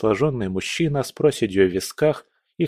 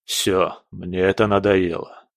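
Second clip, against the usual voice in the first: calm resignation; 4 semitones lower than usual. Acted. General quits before the prince, calm and weary. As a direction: say it done and settled. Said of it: "сказал он спокойно".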